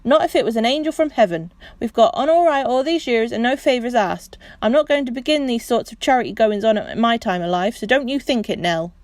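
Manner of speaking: loud, firm angry refusal. Acted. Husband refusing charity to his wife, loud and firm. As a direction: stand your ground loudly. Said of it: "said Perks firmly".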